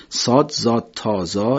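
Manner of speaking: صاد، زاد، تا، زا recited one by one, each letter named slowly; name each Arabic letter clearly; emphatic Arabic letters. Shown as a demonstration. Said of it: "نه تا حرف ما میشماریم".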